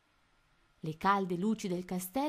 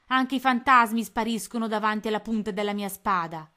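louder swaggering boast; boastful captain; 3 semitones higher, 8 dB louder than usual. A narrator's reading. Pirate captain mocking the ghost, loud boast. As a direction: brag about his sword. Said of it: "gridò Capitan Codanera".

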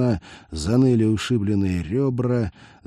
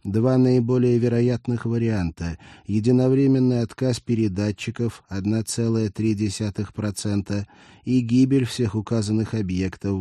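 machine irony; 2 semitones higher than usual. Acted. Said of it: "с жуткой машинной иронией".

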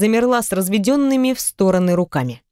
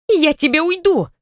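higher, angry retort; 9 semitones higher than usual. A narrator's reading. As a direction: snap it back, pitched up. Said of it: "рассердилась Наталья".

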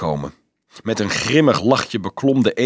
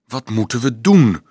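a touch of despair, pushed a little; desperate; 4 dB louder than usual. A narrator's reading. Dolf to friends gathered round him, desperate. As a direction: ask it urgently, with understated desperation. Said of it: "vroeg hij wanhopig".

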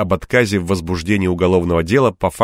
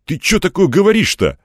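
much higher stunned question; taken aback; 11 semitones higher, 4 dB louder than usual. A narrator's reading. Man reacts to counselling suggestion, high and stunned. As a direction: ask in baffled disbelief. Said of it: "опешил я".

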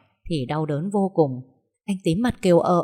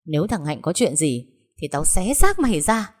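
menacing threat that swells to a loud snarl; growling threat; 3 dB louder than usual. Acted. Hoa threatening her sister-in-law outside the emergency room, rising snarl. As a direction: threaten her through clenched rage. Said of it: "Hoa gầm gừ".

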